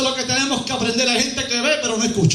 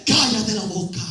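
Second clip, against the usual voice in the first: much lower, sinister enemy voice; 3 semitones lower, slower than usual. Acted. Preacher voices the enemy telling believers to shut up, low and sinister. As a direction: growl it low like the devil.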